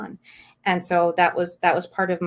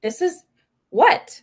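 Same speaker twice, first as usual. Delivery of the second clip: baffled inner thought; 11 semitones higher, 6 dB louder, slower than usual. Retold or imitated.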